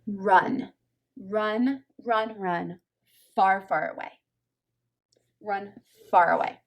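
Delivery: mock-dramatic run, run, each word punched; urgent warning.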